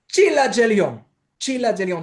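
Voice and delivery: ΤΣΙΛΑ ΤΖΕΛΙΟΝ with thick ch and dzh; pronunciation model. Shown as a demonstration. Teacher revealing the real pronunciation, clear model. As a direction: announce ΤΣΙΛΑ ΤΖΕΛΙΟΝ clearly, final ng nasal. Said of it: "και προφέρεται ως".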